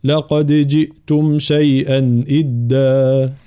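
slow, drawn-out tajweed chant; Quran recitation. Acted. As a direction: recite each word slowly and melodically. Teacher recites. (تلاوة مجودة بطيئة)

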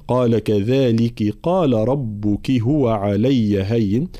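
slow, measured tajweed chant; Quran recitation. Acted. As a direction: chant the verse with long vowels. (ترتيل قرآني)

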